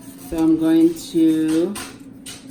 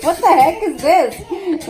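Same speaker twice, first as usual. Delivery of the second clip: higher, slow, laughing mock dismay; softened version of an angry question; nicer retelling; 9 semitones higher, 6 dB louder, slower than usual. Mother retelling sister's soup mistake, mild laughing dismay. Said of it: "saying it way nicer than I told her".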